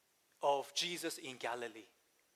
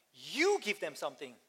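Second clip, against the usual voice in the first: "You" hit hard at the start, the rest falling away; stress on you. Retold or imitated. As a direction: punch the word "You" as a firm command. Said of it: "That's a very emphatic, "you".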